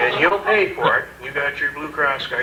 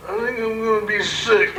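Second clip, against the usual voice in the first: higher, queasy voice; queasy inmate; 8 semitones higher than usual. Retold or imitated. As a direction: play the sick drunk. Inmate feeling sick.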